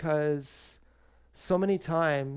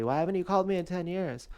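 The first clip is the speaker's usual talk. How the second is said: retold angry drunk; 5 semitones higher, faster than usual. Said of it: "said angrily".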